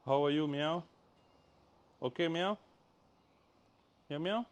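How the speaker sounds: high, soft pet talk; high coo for a kitten; cooing at a cat. Real, not acted. Talking sweetly to her cat.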